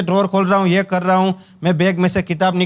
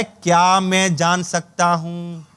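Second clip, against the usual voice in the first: धीमे से पूछना; 4 semitones lower, much slower than usual. Shown as a demonstration. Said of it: "सबसे पहला फंडा है".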